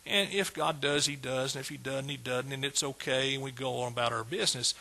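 mock resignation. Preacher mimicking half-trusting believers, with mock resignation. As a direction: toss it off like someone who doesn't expect much.

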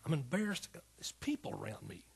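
imitated weeping protest, not full crying; retold tearful plea. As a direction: act out pleading to be left alone. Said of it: "I was crying. I was just weeping".

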